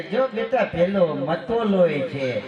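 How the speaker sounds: put-on grandfather slowly lisping like a toddler; old man turned child, babbling slow; slow mock baby lisp from grandpa; grandpa baby talk. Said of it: "ઈ છોકરું બની જાય".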